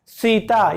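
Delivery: सीता with the tongue touching the teeth, dental s. Shown as a demonstration. Teacher models dental सीता for students, crisp dental s. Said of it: "ऊपर के दांतों को छूनी चाहिए".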